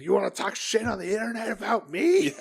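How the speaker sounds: high laughing mock tough-guy promo; imitating Juice, laughing. Retelling Juice's promo to co-host, laughing tough-guy voice. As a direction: ham up a wrestler's threat while laughing. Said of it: "It's like".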